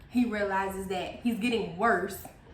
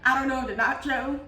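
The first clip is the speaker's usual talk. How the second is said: breaking into laughter; laughing; 4 semitones higher, 5 dB louder than usual. Real, not acted. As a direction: fight through a laugh. Laughing fit mid-sentence.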